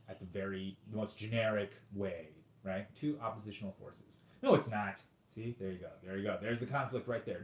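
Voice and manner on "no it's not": mock contradiction. Acts out the contradicting opponent.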